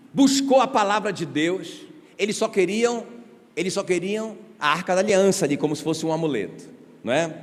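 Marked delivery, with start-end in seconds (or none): none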